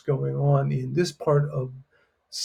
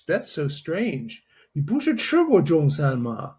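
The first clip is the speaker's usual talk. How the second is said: a little attitude. Shown as a demonstration. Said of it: "You get a little attitude like".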